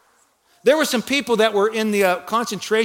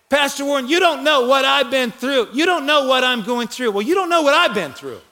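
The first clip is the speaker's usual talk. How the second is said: higher-pitched mock protest; lightly acted, insistent complaint to the pastor; objecting churchgoer; 5 semitones higher than usual. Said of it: "And you may say".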